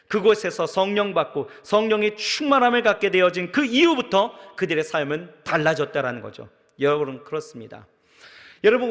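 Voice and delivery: loud, ringing sermon delivery; full-force preaching. Acted. Pastor urging the congregation, preaching loud. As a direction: drive it home to the congregation.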